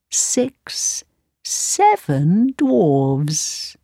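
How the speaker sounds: slow, drawn-out mirror voice; magic mirror. Acted. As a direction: count them out as the mirror. Mirror corrects the queen.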